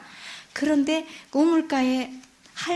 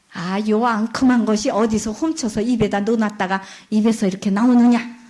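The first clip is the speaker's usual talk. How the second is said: scolding; 3 semitones lower than usual. Acted. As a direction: scold the sly girl. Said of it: "야단을 치는 거니까".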